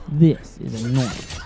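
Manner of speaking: put-on Australian accent, slow on the punchline; Crocodile Dundee. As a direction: draw out the Australian line. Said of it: "Crocodile Dundee jokes with him".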